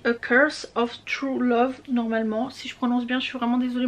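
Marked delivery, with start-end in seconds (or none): 0.0-1.8 slow, careful English title in a French accent; unsure English title in a French accent. Real, not acted. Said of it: "mon accent merdique".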